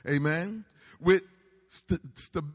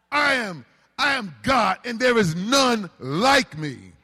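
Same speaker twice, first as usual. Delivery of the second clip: full force preaching. Real, not acted. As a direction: raise the roof with it.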